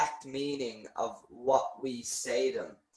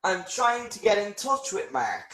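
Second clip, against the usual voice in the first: casual caller; 3 semitones higher than usual. Shown as a demonstration. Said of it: "the difference between the informal and the formal".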